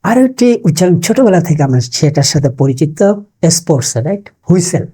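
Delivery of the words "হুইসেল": হুইসেল as "hui-sel", with an h; wrong pronunciation. Shown as a demonstration. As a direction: say হুইসেল the local way, h first. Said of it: "it's not whistle". (হুইসেল-এ ভুল হ ধ্বনি)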